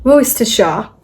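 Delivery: Worcestershire in a British accent, wuss-ter-shah with no r. Shown as a demonstration. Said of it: "You can even do it in a British accent".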